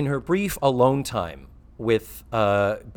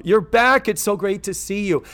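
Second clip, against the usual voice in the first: Missus Garrett; 7 semitones higher than usual. Retold or imitated. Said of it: "Do Missus Garrett instead".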